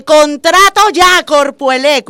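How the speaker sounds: read out like a slogan. Retold or imitated. Reads out graffiti on truck.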